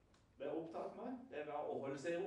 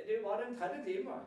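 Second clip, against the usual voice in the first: emphatic retelling; 6 semitones higher, 7 dB louder than usual. Retold or imitated. Peter defending the disciples.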